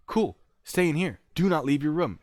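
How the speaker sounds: high, loud instruction; firm order. Retold or imitated. Agent tells man to stay put, firm order.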